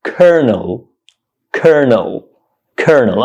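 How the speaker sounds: "kernel" in two syllables, KER-nul; "kernel" with an r in the stressed first syllable; correct pronunciation demo. Shown as a demonstration. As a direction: model "kernel" slowly as separate repeats, stress first. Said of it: "This word is pronounced".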